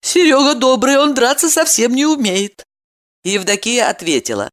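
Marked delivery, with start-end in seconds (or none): 0.0-2.6 higher woman voice; woman's voice. A narrator's reading. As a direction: voice her steadily. Evdokia voiced.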